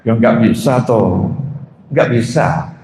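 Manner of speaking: slow, low, unbothered reply; husband answering calmly, slow and low. Retold or imitated.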